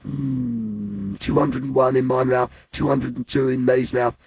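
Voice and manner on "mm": long high, falling "mm"; drawn-out hum of relish; savouring hum. Acted. Boy relishing a mouthful of raisins, savouring hum.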